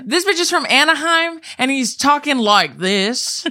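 can't believe what you just learned; outraged disbelief. Real, not acted. Friend ranting that the actor is from Anaheim, outraged.

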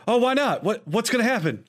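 lightly voiced clueless girl; mock horror heroine. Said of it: "she turns around and goes".

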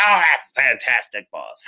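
lightly hammed-up sycophant impression; mock gushing praise, dropping away into a laugh; Kevin Dunn. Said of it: "I don't do a good Kevin Dunn impression".

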